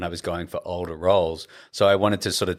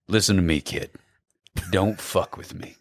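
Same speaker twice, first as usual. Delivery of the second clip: Brad Pitt impression. Shown as a demonstration. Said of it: "he'll look at you and he'll just go".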